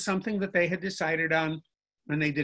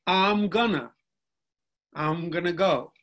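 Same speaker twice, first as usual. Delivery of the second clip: Southern drawl demo. Shown as a demonstration. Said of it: "Southeastern American English dialects".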